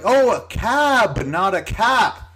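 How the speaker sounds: high, slow correcting tone; mock realization. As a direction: imitate her working it out slowly. Her understanding, mockingly acted out.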